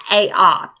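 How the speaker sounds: "a, ah" said as the letter's two sounds, then the open ah; teacher modelling phonogram sounds. Shown as a demonstration. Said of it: "This letter right here is a".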